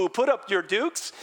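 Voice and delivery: playfully combative challenge; mock fighting words. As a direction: puff up like you're ready to brawl. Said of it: "We'd be angry and defensive".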